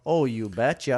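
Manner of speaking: Minnesota "oh, you betcha"; folksy Minnesota accent. Pretend. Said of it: "Why are you doing a Minnesota accent".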